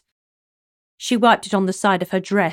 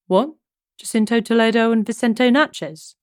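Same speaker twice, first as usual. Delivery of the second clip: higher, louder sudden astonishment; surprised; 4 semitones higher, 4 dB louder than usual. Acted. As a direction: caught off guard by the news. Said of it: "Javi asked with a surprise".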